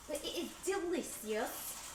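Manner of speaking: slow, slightly Australian accent; stretched words with an Australian tinge; accidental Australian. Real, not acted. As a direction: slip into a light Australian lilt. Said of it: "now I'm turning Australian".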